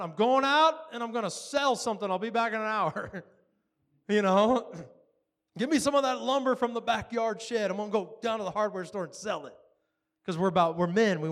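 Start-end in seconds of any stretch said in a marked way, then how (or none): 0.0-3.2 louder, higher mock resolve; hammed-up determined husband. Preacher mimics most men facing an empty account, hammed-up resolve. Acts out men rushing to provide. 5.6-9.6 mock take-charge urgency; hammed-up determined husband. Preacher mimics men scrambling to sell lumber, hammed-up urgency. Acts out men rushing to provide.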